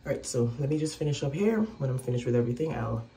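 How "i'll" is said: ordinary talk, nothing marked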